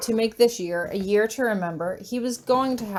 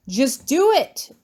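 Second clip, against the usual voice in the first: urgent command; 4 semitones higher, 6 dB louder, slower than usual. Acted. Urgent order, shoving him.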